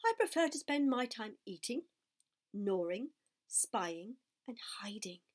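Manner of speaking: bitter resentment. Acted. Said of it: "replied the rat sourly".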